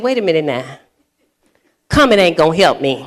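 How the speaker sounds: low, chuckling comeback; laughing retort. Retold or imitated. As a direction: laugh it off while still mad. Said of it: "And I said".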